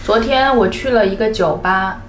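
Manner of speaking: chatty skit with tags; 啰嗦地聊天; overusing ni zhidao ma. Shown as a demonstration. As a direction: play a rambling friend. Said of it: "Chinese people don't often say".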